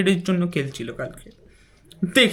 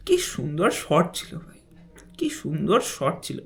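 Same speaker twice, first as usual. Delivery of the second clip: awed whisper; 5 semitones lower, 6 dB quieter than usual. Real, not acted. Awed over a beautiful shot.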